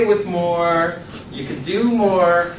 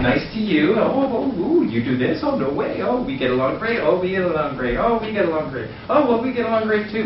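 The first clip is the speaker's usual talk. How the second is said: eager to please, higher on each oh; kiss-ass gushing; 6 semitones higher than usual. Retold or imitated. Fawning over the group, gushing agreement. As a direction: gush over everything like a suck-up. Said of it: "Now I'm a kiss ass".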